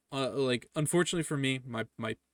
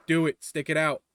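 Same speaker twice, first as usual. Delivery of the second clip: emphatic urging; 4 semitones higher, 8 dB louder than usual. Real, not acted. Urging students again.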